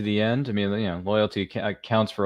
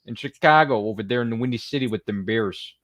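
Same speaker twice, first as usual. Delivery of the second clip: a lightly done Chicago accent, self-mocking; a hint of a Chicago accent, nodding to the Chris Farley SNL bit; poor Chicago accent. Podcast host congratulating the Cubs, in a light mock Chicago accent. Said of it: "a, uh, Chicago accent".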